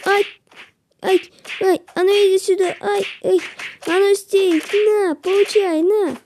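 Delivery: hammed-up attack cries; mock chase yells. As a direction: chase it down yelling. Chasing enemy.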